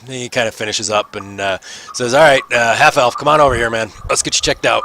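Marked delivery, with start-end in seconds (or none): 2.1-4.8 lightly voiced guard.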